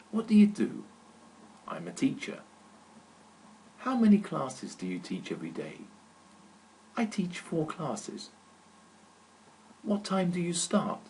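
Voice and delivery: teacher voicing a two-person dialogue; read dialogue. Shown as a demonstration. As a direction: act out both sides of the dialogue. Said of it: "Listen to this dialogue".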